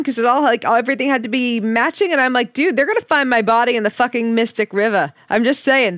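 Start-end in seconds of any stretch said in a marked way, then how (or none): 2.5-5.1 put-on Boston accent. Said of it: "my Boston accent comes out".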